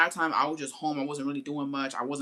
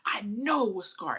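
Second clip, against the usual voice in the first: hushed dad; 4 semitones higher, slower than usual. Retold or imitated. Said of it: "He's like".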